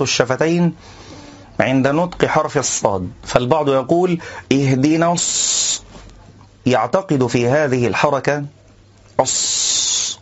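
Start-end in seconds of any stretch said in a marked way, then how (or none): 4.5-5.8 الص said with rounded lips, slow. Shown as a demonstration. Teacher showing the lip-rounding mistake on ص. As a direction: round your lips on the ص of الصراط. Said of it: "إعمال الشفتين".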